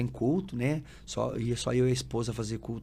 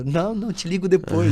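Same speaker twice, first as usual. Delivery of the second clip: higher, louder hasty refusal; mock brush-off; 6 semitones higher, 8 dB louder than usual. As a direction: imitate someone hurriedly getting rid of a caller. Mimics landlords brushing off big family.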